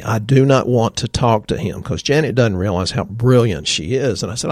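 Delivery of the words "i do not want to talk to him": firm, each word weighted, mild retelling; emphatic refusal. Retold or imitated. Janet refusing to meet the visiting doctor, retold emphatically. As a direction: lean on "do" and "not" without raising the voice much. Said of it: "Janet said emphatically".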